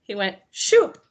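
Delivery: quick rising whoosh on shoop. Retold or imitated. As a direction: sell the sound of the shoop. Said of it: "the noise was literally shoop".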